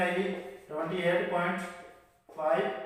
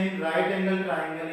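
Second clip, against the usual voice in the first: slow dictation; 3 semitones lower, much slower than usual. Shown as a demonstration. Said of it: "again note करते हैं".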